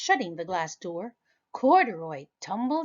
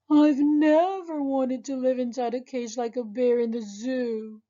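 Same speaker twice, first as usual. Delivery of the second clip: a hint of a small bear voice, higher; lightly voiced toy bear; 5 semitones higher, 4 dB louder than usual. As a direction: bear frets about cage. Bear voicing dislike of cage.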